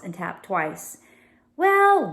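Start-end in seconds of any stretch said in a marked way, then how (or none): 1.6-2.1 mocking well. A narrator's reading. Villain sneer.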